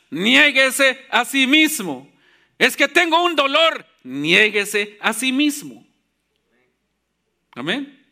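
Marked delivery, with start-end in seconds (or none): 2.6-3.8 slightly hammed-up excuse, pitched higher; mock excuse. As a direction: act out a reluctant churchgoer's protest. Preacher acts out congregants' excuses. (excusa fingida, en tono más agudo)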